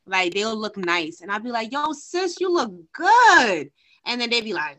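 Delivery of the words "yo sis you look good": slow, higher, louder street compliment; lightly acted call to a girl she passes; friendly compliment. Woman complimenting a younger girl, lightly acted cheery call.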